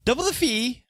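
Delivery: high-pitched, worried merchant urging haste; flustered accused merchant. Acted. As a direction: give in, then fret rapidly about the consequences.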